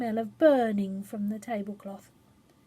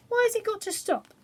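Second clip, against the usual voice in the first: voiced high and plaintive as a child; high child's question; 11 semitones higher, faster than usual. A narrator's reading. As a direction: lift it up like a puzzled child. Child's voice in story.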